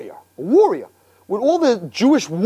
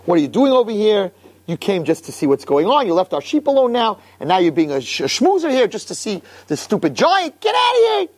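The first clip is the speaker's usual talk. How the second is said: angry scolding. Retold or imitated. Older brother scolding David for leaving the sheep, angry. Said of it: "He got very angry".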